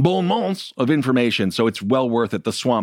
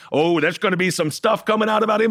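high-pitched teasing mimicry; mock Caitlyn Jenner; 8 semitones higher than usual. Host imitates a candidate hinting at scandal, high mocking voice. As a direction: put on a higher, mock-gossipy voice. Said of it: "is Caitlyn literally like".

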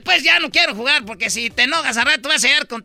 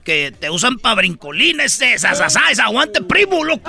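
lower, slangy East LA cholo talk; 4 semitones lower than usual. Acted. Cholo tough talking to Don Cheto in slang. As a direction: lay back and talk like a homeboy.

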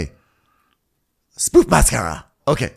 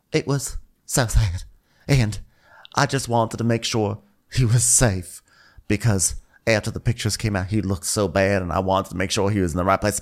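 mock choked up; 3 semitones lower, 3 dB quieter than usual. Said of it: "one minute she's choking up".

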